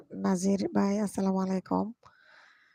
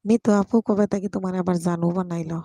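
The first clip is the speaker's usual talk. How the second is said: louder, mock-accusing question; loud teasing; 8 dB louder than usual. Real, not acted. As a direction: tease him loudly in front of viewers. Teasing nephew loudly. (জোরে ঠাট্টা করে প্রশ্ন)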